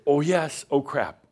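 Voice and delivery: gleeful mock alarm; excited dismay. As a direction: blurt it out, half thrilled, half panicked. Reaction to the news, redone bigger.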